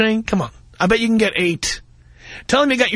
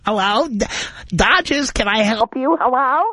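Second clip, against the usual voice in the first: tired ticket lady. Retold or imitated. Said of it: "a woman gets on the phone who sounds like".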